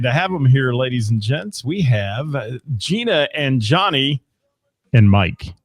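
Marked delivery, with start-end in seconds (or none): 4.9-5.5 casual throwaway tacked on at the end; tossed-in afterthought. Shown as a demonstration. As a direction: toss the name in as an afterthought. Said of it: "see how I threw that in".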